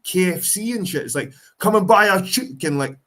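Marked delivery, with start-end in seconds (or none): 1.6-2.8 high, loud street London ad voice; street London accent. Retold or imitated. KFC advert voice selling chicken in street London accent. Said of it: "they're using the street London in, like, adverts".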